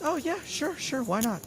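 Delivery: high sarcastic oh yeah sure; mock-approving sarcasm. Real, not acted. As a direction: roll your eyes at the call. Sarcastic commentary.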